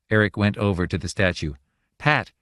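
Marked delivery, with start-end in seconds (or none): 2.0-2.3 begging. A narrator's reading. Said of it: "he begged imploringly".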